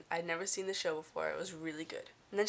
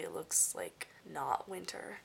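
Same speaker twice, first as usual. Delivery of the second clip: whisper; 4 semitones lower, 5 dB quieter, slower than usual. Real, not acted. Aside about the odd weather.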